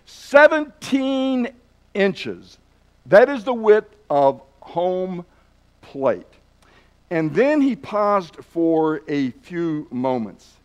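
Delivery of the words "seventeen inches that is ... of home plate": a big bellow, much higher and louder on Seventeen. Retold or imitated. Speaker bellows the plate's width at the baseball coaches. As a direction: boom it out to the whole room. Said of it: "he bellowed out in a very loud voice".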